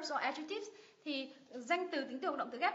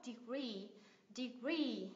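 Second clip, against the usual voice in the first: "degree" as de-GREE, last syllable held; teacher's model of "degree", weight on GREE; stress on final syllable; 6 dB quieter, much slower than usual. Shown as a demonstration. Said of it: "nhấn vào ngay cái âm tiết đấy".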